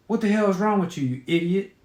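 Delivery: fast, high snapping mother; angry mom. Acted. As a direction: snap at the kid impatiently.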